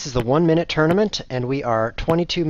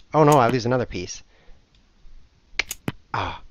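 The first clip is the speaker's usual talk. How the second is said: ordinary talk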